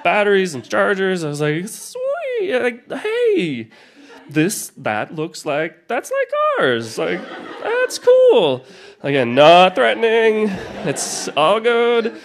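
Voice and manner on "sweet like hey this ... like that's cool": much higher, bright squeal of delight; like spotting your own treasure, gushing; delighted discovery. Retold or imitated. Excited find of the walkie-talkies.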